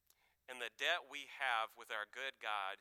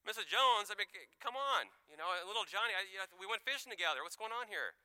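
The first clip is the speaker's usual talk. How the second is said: pleading little Johnny; 7 semitones higher, 5 dB louder than usual. Retold or imitated. Pleading with teacher at cliff.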